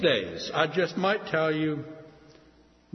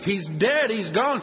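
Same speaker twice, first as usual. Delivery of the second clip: higher, grieving cry; weeping; 5 semitones higher, 3 dB louder than usual. Acted. Widow weeping over husband's death, grieving cry. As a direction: sob out the loss. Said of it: "She just wept her eyes out".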